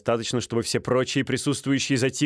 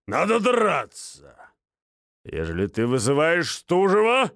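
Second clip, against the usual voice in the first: lightly voiced gruff major; 3 semitones lower than usual. Минц agreeing to be second, lightly gruff. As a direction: concede like an old soldier.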